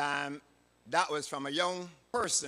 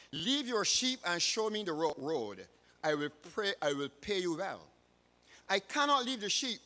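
measured, deliberate read-aloud storytelling; story narration. A narrator's reading. Preacher reading a moral tale to boys and girls, story narration. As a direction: read it clearly with emphatic key words and pauses.

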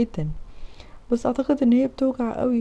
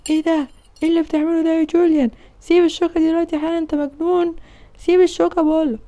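higher, louder, fast shouted scolding; angry father yelling; 5 semitones higher, 4 dB louder than usual. Acted. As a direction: yell at your son to drop it. (أب غاضب بيزعق في ابنه)

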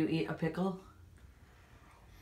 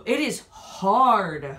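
slow and deliberate; 5 dB louder, much slower than usual. Real, not acted. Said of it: "It's a hard-boiled egg".

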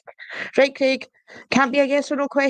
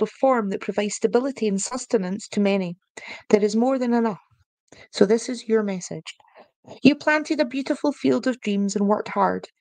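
measured, even reading-aloud voice; card reading. Acted. Streamer reads the corn card message to viewers, even and measured. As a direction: read the card's message like a gentle oracle.

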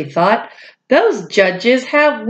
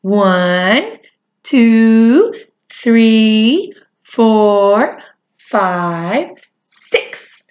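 counting aloud; much slower than usual. Shown as a demonstration. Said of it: "Let's count that out".

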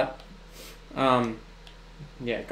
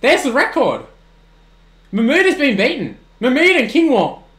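excited; 7 semitones higher, 5 dB louder than usual. Real, not acted. Record broken in game.

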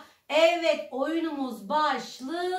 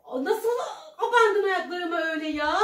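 being tickled. Real, not acted. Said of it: "İnanılmaz gıdıklanıyorum".

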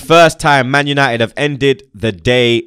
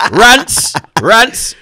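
mock high squeaky call, louder; 9 semitones higher, 5 dB louder than usual. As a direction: squeak the name out like a voice cracking. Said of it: "it's like his balls dropped again".

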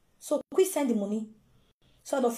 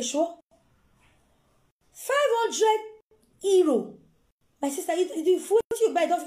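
mock relative; 5 semitones higher, 3 dB louder than usual. Mocking Nigerian relative on phone.

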